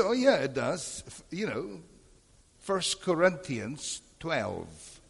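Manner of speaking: insistent retort. Retold or imitated. Pastor insisting to the visiting teacher, insistent and slow. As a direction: spell it out slowly as if not understood.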